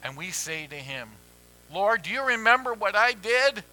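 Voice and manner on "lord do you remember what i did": louder, higher plea; pleading. Retold or imitated. Sinner pleads with the Lord, louder and higher. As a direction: beg the Lord to remember.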